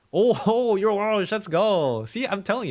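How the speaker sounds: high, loud, laughing surprise; light up with delight at the news; excited. Real, not acted. Excited reaction to Welsh viewer.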